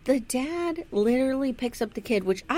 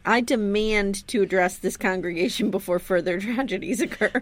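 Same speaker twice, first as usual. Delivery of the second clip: mock formal demand. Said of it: "you need to do this at your next staff meeting".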